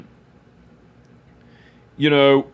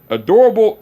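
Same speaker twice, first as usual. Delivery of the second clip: high, loud mock outrage; scoffing disbelief; 7 semitones higher, 6 dB louder than usual. Uncle mocking girlfriend's word, loud scoff. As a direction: scoff at the word like it's absurd.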